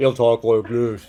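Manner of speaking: very low, soft, deep voice. Showing how the balloons make your voice go low: deep low voice. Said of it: "They'll make you go low".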